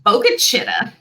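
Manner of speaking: Boca Chita with "chi" as in "chit"; teaching demo of Boca Chita with a short I; short I sound. Shown as a demonstration. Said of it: "Shorten that I sound".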